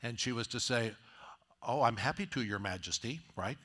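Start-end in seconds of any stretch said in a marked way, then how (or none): 1.6-3.2 mock-sweet, sarcastic "Your Majesty"; playfully derisive, lay it on thick. Wife answers a bossy husband, sarcastic "Your Majesty". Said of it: "She would be being very sarcastic".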